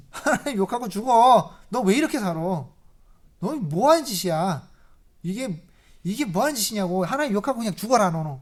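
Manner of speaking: Job's wife telling him to curse God, a hammed-up scold; nagging, scolding wife. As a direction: berate him like an exasperated wife.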